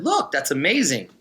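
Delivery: retold fake-impressed cheer; mock congratulation. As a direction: congratulate a beaten rival to needle him. Retold mock congratulation to beaten rival.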